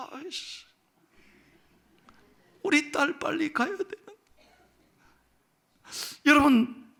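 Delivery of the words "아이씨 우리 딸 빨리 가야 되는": a hint of a fretting father, pitched higher; frustrated father. Pastor voicing Jairus stuck on the road, mildly fretting. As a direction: voice the anxious dad under his breath. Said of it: "아버지 야이로의 입장에서 보면 얼마나 답답했을까".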